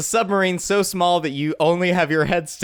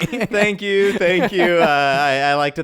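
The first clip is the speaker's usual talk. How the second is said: lightly played award winner thanking the crowd; mock acceptance speech. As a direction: pretend you just won an acting award.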